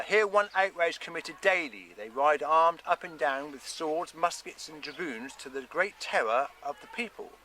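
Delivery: put-on measured reading of an old letter; reading a letter aloud. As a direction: read out a historical document, phrase by phrase. Reads from the letter.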